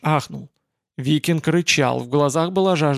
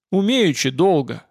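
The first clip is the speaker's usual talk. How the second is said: retort. Acted. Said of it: "отпарировал Олаф".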